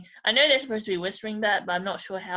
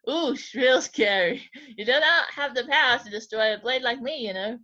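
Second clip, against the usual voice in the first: mocking laugh. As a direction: laugh off the threat. Sword mocks threat of melting.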